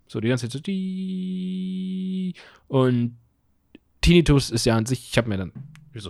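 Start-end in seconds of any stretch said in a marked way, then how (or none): 0.6-2.3 beep imitation.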